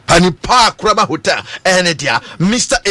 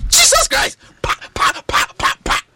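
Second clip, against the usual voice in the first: amazed exclamation. Real, not acted. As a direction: exclaim as the goal goes in. Exclaiming over a goal.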